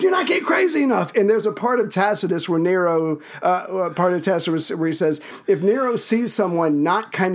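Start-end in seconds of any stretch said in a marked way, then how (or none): 0.0-1.1 much higher shouted rock-star rant; impression of a heavy-metal singer. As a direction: bellow at the crowd like a rock singer. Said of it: "he'd be like".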